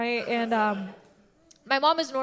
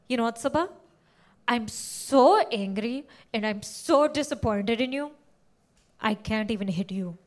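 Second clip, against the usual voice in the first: quiet disappointment; 3 semitones lower, 3 dB quieter than usual. Retold or imitated. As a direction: say it softly, deeply disappointed. Disappointed mom, slow.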